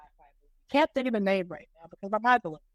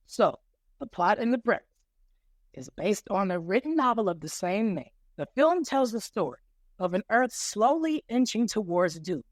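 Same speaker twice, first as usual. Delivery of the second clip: put-on Boston accent. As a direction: pitch it in a thick Boston accent. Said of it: "I got the Boston voice here".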